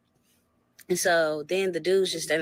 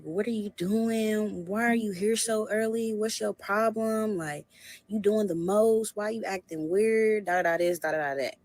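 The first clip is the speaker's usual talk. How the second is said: imitating angry boyfriend; 5 semitones higher than usual. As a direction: mimic him nagging on the phone. Boyfriend's phone rant voiced.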